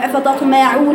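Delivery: quick أفتطمعون as some students read it; imitated student error. Teacher imitating how some students read, imitated error on أفتطمعون. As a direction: mimic a careless reading of أفتطمعون. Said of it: "بعضكم بيقرأها هكذا".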